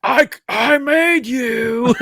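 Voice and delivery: drawn-out proud declaration; imitating brother. Brother telling the cosplayer he created him, slow and earnest. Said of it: "He goes".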